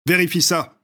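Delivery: high, sharp command; urgent order. Acted. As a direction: toss it over and bark it. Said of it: "lui demanda Reaper".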